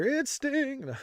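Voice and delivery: high-pitched, off-his-rocker outburst; unhinged high cry; Joker Sting. Acted. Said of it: "did sound like the Joker Sting".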